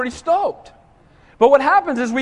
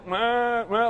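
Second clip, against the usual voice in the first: soft whiny "meh" noises; mock whining; 6 dB quieter than usual. The Israelites whining at God, mocking "meh" noises. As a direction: imitate wordless whining, quietly.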